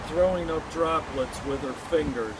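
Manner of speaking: measured poem reading with pauses between phrases; poem recitation. Acted. Poet mourning a girl killed in war, poem recitation. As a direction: recite it line by line, letting each phrase settle.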